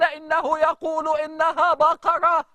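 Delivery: imitating the reciter, slow and stretched; slow, savouring recitation of a reciter; slow drawn-out recitation. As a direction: stretch each word like the imam in prayer. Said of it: "بطريقة قرايته للقرآن".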